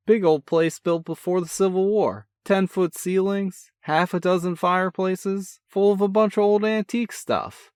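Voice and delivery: a cocky big brother, full of energy; brash older brother. A narrator's reading. Older brother teasing on the phone, brash and cheerful. Sean voice, excited.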